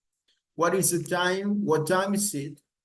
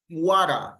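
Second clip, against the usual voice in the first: "Water" punched louder, as in an admiring "what a"; exaggerated exclamation; 5 dB louder than usual. Shown as a demonstration. Teacher models an exclamation for students, emphatic falling "Water". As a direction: hit the first syllable of Water, then fall. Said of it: "exaggerating and highlighting".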